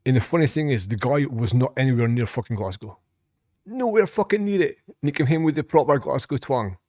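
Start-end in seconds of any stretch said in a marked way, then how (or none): 3.6-4.8 pitched-up insistence on NOWHERE; incredulous emphasis. Real, not acted. Storyteller insisting his friend was far from Glasgow, incredulous. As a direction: stress NOWHERE high, in disbelief.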